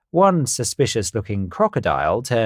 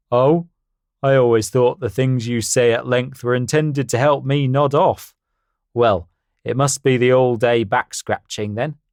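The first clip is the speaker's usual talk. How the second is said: louder, boastful stallion; confident horse voice; 3 semitones higher, 4 dB louder than usual. Acted. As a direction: puff up like a proud horse. Harry voiced in story.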